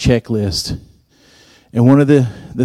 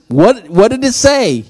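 pitched way up, a mock baffled ask; high incredulous question; 10 semitones higher than usual. To the new administrator, mock baffled high question. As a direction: play dumb, voice jumping high.

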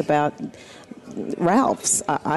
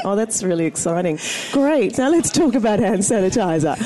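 mock enthusiasm, pitched up on "Great"; feigned interest; 3 semitones higher than usual. Guest imagines enduring host's small talk, feigning interest. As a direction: fake being thrilled, politely. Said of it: "had to feign interest".

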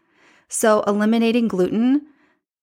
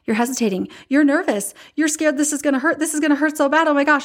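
panicky daughter; 6 semitones higher, faster than usual. Retold or imitated. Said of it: "She's like".

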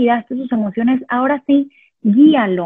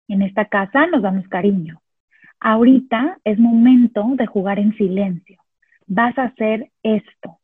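calm assertive instruction. Shown as a demonstration. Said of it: "le digo qué sí hacer".

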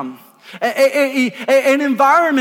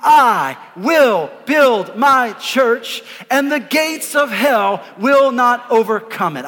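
full voice; slower than usual. Real, not acted. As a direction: proclaim it with full voice together. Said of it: "full voice in the room".

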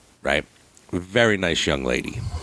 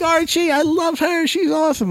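much higher, gushing praise; gushing friends. Retold or imitated. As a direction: friends hyping the new girl. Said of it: "they were like".

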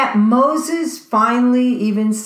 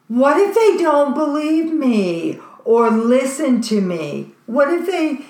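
higher, pleading whine; whining; 5 semitones higher than usual. Retold or imitated. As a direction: whine the excuses like a reluctant prophet. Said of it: "he starts whining".

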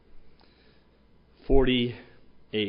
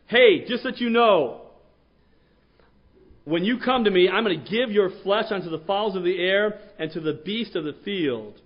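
terrifying giant; 8 semitones higher than usual. Retold or imitated. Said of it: "this is gonna be terrifying".

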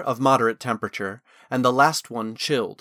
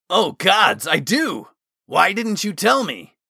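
higher, louder horrified realisation; dismayed outburst; 7 semitones higher, 5 dB louder than usual. A narrator's reading. Osmond sniffing his own armpit, dismayed. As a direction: cry out in comic dismay. Osmond discovers he really smells.

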